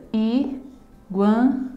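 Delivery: "Iguana" in three slow beats: i, gua, na; syllable by syllable. Shown as a demonstration. Teacher showing three breaths in a word, syllable by syllable. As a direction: pause after each syllable of "Iguana". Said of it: "eu emito também três expirações na pronúncia".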